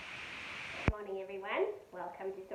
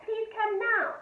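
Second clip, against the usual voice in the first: urgent plea; 12 semitones higher, 11 dB louder, slower than usual. A narrator's reading. Mum phoning dad in fear.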